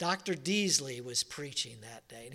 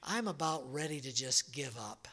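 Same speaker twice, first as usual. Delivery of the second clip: soft, weary prayer of giving up, quieter and low; despairing prayer; 3 semitones lower, 5 dB quieter than usual. Retold or imitated. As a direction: pray quietly, ready to quit. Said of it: "I sat in there and I thought".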